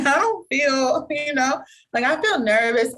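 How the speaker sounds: retold anxious child. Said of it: "was telling her mom".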